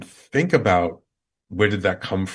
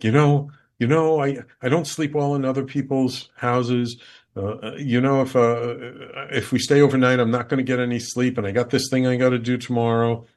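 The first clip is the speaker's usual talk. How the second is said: imitating wife's hesitant excuses, higher; reluctant excuses; 5 semitones higher, 3 dB louder, faster than usual. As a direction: hem and haw in a raised voice. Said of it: "Resistance, resistance, resistance".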